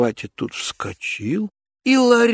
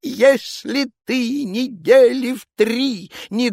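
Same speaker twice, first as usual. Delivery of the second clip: higher, slow threatening tone; menacing tsar; 10 semitones higher, 3 dB louder than usual. Acted. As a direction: threaten the servant. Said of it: "закричал он".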